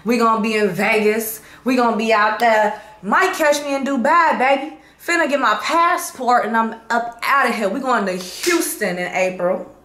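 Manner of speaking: loud, high hype of tour dates; hyped announcement. Real, not acted. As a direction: get the crowd pumped. Hyping her tour dates.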